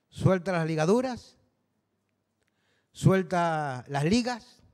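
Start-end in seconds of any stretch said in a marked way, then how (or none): 2.9-4.6 slow Canarian phrase. Shown as a demonstration. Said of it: "como diríamos aquí en Canarias".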